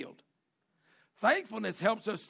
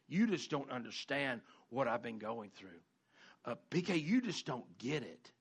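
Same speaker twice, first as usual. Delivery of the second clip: mock self-pity; 6 semitones lower, 4 dB quieter than usual. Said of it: "you're going".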